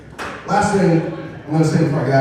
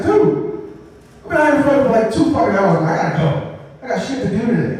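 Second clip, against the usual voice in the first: exasperated dude; 6 semitones higher than usual. Retold or imitated. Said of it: "I'm just like".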